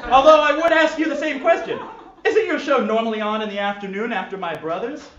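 fussy, disgusted posh gentleman. Acted. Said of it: "yet posh voice".

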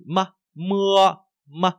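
mơ very short, mưa stretched high; short mơ, long mưa. Shown as a demonstration. Teacher contrasts two readings, mơ short against long mưa. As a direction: clip mơ, draw out mưa. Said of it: "đọc âm tiết này từ mơ rất là ngắn".

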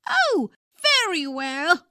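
put-on high, whiny old man's voice; old wizard voice. A narrator's reading. Father doing the wizard for his daughter, high whiny old man. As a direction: scrunch up the face and whine like an ancient wizard. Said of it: "the wizard's voice".

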